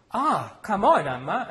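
loud, high whining protest; protesting cry. Acted. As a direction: cry out against the order. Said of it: "Then he cried".

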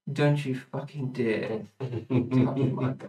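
slow, stern warning at normal volume; understated, unhurried sternness; stern, matter-of-fact. Acted. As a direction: state it sternly, matter-of-factly, taking your time. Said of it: "matter-of-factly, sternly is like".

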